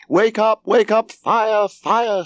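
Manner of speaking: very high, loud alarm cries; screaming. A narrator's reading. Margot waking the household for a fire, screaming. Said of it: "screamed Margot at the top of her voice".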